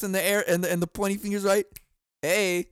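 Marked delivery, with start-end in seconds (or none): 2.2-2.7 slow, lilting just keep swimming; sing-song it like a cartoon fish; hammed-up cheerful boss brushing off a worker; mock Dory singsong. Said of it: "she just looks at him".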